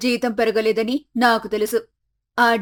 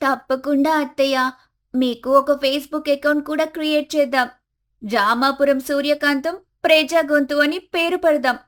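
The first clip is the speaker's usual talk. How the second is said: put-on higher, playful young voice; daughter-in-law teasing about fame, higher voice; Komali, teasing cheerfully; 4 semitones higher than usual. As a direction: tease her mother-in-law brightly, pitched up.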